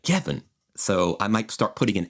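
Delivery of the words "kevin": Kevin with French vowels, stress on the end; French-accented name. Shown as a demonstration. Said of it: "And so it'd be like".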